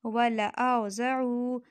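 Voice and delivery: वला औज़अू very slow, lam not stretched; correct Quranic reading. Shown as a demonstration. Teacher modelling the true reading slowly. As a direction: say वला औज़अू deliberately, syllable by syllable. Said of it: "असल में जो है ये लफ्ज़ है".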